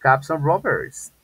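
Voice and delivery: each word drawn out slowly and loudly; slow model sentence. Shown as a demonstration.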